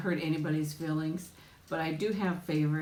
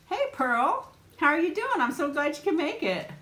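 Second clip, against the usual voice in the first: bright, higher and louder hello to a new viewer; excited hello to a viewer joining the stream; excited greeting; 10 semitones higher, 4 dB louder than usual. Real, not acted. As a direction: greet her like a friend just walked in. Greeting a viewer who joined.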